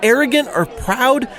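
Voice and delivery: righteous outrage, building as he justifies himself; indignant Pharisee rant. Acted. Jeff the Pharisee complains to his buddy Mike, indignant and preachy. Pharisee rants about Jesus.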